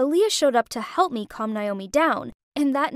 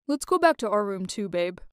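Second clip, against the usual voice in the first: intimate murmur; 4 semitones lower than usual. Acted. Mark leaning in to his girlfriend.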